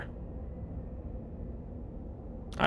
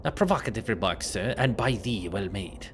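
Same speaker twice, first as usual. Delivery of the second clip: put-on old-fashioned formal speech; 5 semitones lower, 3 dB quieter than usual. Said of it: "Why did you start talking like this?".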